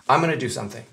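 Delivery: "I'm gonna do something" slurred to "I'mana", the g nearly gone; swallowed going to. Shown as a demonstration. Teacher showing the most reduced American form, going swallowed. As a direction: rush through "I'm gonna" as one word. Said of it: "ils prononcent même pas le going to".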